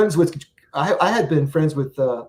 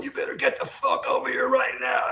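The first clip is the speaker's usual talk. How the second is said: a boss barking orders down the line; retold yell; 11 semitones higher, 5 dB quieter than usual. Manager yelling on the phone.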